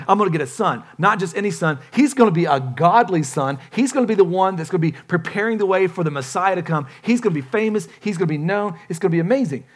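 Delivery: mildly giddy proud father-to-be. Acted. Zechariah imagining his coming son, a touch giddy. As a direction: let the excitement tumble out in a list. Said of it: "He's gotta be giddy".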